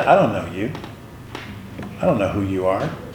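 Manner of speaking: low, quiet, contemptuous tone.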